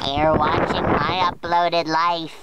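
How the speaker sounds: helium-altered vlog intro. Shown as a demonstration. Vlogger greeting viewers after inhaling balloon gas, helium voice. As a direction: give the channel intro on helium. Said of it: "I'm on helium".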